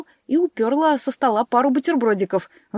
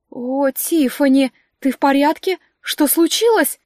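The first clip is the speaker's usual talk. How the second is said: a hint of a fussing high steward voice; fussy steward scolding the witches; 3 semitones higher, 3 dB louder than usual. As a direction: flutter over the girls, louder. Steward Dominika's voice.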